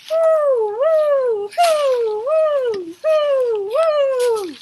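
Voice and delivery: loud high wind howls; howling wind. A narrator's reading. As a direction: howl like a storm wind.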